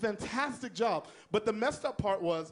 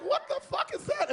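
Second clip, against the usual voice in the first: shocked squeal. Retold or imitated. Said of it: "It's like".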